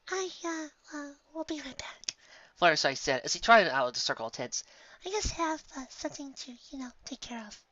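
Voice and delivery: bashfully sneaking away; shy hesitant whisper. Acted. Fluttershy voiced, hesitant.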